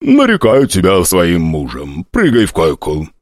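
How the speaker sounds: lightly voiced old hostess, slow; crone hostess. Hostess sizing up the prince, a lightly voiced crone. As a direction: drawl it like a sly old hag.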